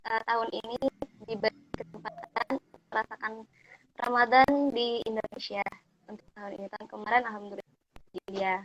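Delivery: choppy broken connection; radio breaking up. Real, not acted. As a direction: audio dropping in and out. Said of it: "Maaf, Mbak, suaranya putus-putus".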